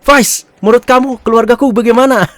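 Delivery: playfully hammed-up questioning; acted question. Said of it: "Lalu ditanya".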